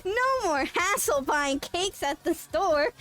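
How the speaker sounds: infomercial voice. Pretend. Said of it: "infomercial voice".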